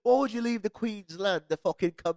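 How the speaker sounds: slow, high, loud mock bafflement; incredulous questioners. Imitating people baffled by Detroit move, incredulous questioners. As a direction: draw out the disbelief, imitating baffled locals. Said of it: "but people are like".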